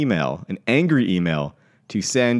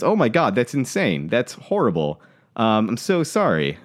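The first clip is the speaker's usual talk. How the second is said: sweetly appalled on someone's behalf; sympathetic; 2 semitones higher than usual. Retold or imitated. Young driver hears of the missed bus, sympathetic. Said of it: "he sympathized. He's really sweet".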